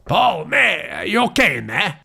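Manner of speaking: shouted through the door. Acted. Mate calling through the door to Paul, high shout.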